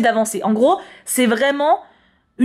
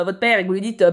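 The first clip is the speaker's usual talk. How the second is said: ordinary talk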